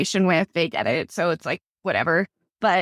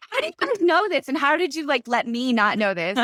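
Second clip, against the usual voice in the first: incredulous; 6 semitones higher than usual. Retold or imitated. Incredulous at her sisters.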